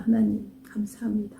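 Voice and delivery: soft, half-whispered prayer; hushed thanks. Real, not acted. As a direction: breathe out a quick thank-you to God. Hushed aside of thanks to God.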